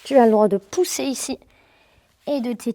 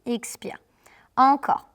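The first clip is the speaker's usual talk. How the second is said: possessed voice; slower than usual. Shown as a demonstration. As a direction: push the breath out hard and audibly. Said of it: "je fais une voix de possédé".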